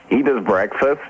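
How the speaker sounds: mock American accent from a Brit; American accent impression. British DJ answering about a colleague's shift, American accent. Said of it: "do that accent for the entire interview".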